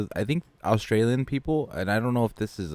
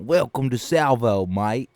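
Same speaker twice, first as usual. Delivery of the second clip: put-on Australian accent; 2 semitones higher, 3 dB louder, slower than usual. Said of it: "that Australian accent".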